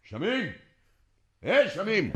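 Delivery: high calling shout for the driver; shouting a name across the courtyard. Acted. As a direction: call him from across the yard.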